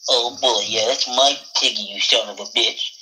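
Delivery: lightly voiced droopy cartoon hound; understated deadpan cartoon dog threat. Hound warns the frog off his pig, lightly voiced. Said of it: "You're there with Droopy Dog".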